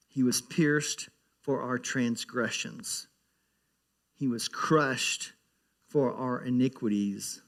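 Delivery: slow, weighty scripture read. Acted. Pastor to congregation reading Isaiah, slow and solemn. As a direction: let each word land slowly.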